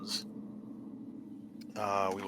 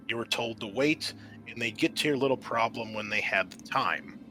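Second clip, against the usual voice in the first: steady, measured scenario narration; game master scene setting. Acted. GM reading the intro to the players, measured narration. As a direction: set the scene for the players like a briefing.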